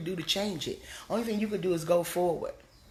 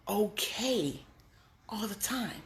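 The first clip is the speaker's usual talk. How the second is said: soft whispered reassurance; 4 dB quieter, slower than usual. Real, not acted. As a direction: breathe it to the listener. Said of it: "whispered reassurance".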